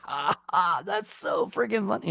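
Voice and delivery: high-pitched exaggerated hilarity; mock big laugh. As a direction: act like it cracks you up, hammed-up. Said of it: "did not make me laugh like".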